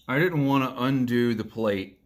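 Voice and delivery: talking around tobacco in mouth; words round a mouthful of tobacco; mouth full. Real, not acted. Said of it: "I have tobacco in my mouth".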